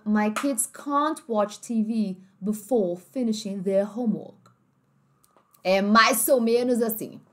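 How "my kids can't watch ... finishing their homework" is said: British accent. Shown as a demonstration. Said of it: "Então".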